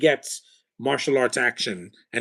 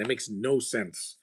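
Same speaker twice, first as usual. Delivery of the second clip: slow, softer, leaning on no; slow emphatic repeat; 5 dB quieter, slower than usual. Real, not acted. Viewer grumbling about an actor's accent, slowly and softer. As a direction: draw out each word as a tired verdict. Repeats complaint, slower and quieter.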